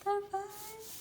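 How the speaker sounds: high, loud squeal; excited squeal. Real, not acted. Fan gushing over photo colours, high loud squeal. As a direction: squeal the word in delight.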